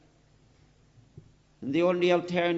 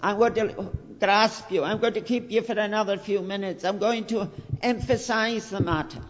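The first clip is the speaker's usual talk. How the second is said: a hint of Paul pleading, raised and higher; voicing Apostle Paul; 4 semitones higher than usual. Preacher voicing Paul gripping his hearers, urgent. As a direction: lightly voice Paul grabbing hold of them. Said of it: "says Paul, as it were".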